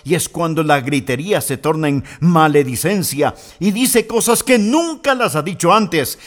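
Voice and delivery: ordinary talk, nothing marked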